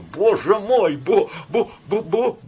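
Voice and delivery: high, stammering terror; frightened mumbling. A narrator's reading. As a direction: stammer in fright, woken at night. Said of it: "бормотала Ванда". (испуганное бормотание)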